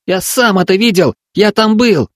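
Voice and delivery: put-on high, earnest boy's voice; insisting child. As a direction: insist you're not joking. Boy insisting.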